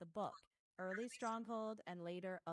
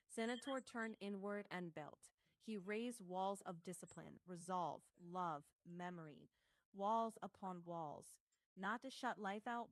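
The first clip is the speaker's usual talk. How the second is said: Oracle's voice. Acted. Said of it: "Here's a clean pass in the Oracle's voice".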